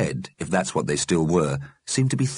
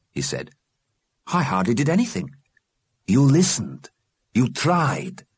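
put-on gentle old man voice; 7 semitones higher than usual. Mr Vicenti says goodbye.

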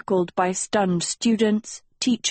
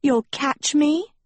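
simpering; 7 semitones higher, slower than usual. Acted. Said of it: "she simpered".

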